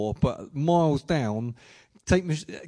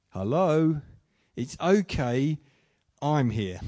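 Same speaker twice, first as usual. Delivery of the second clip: slow, spaced-out, lightly voiced comfort; gentle reassurance; 2 semitones lower, slower than usual. Jesus comforting someone worried at night, mildly reassuring. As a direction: reassure them simply, pausing between phrases.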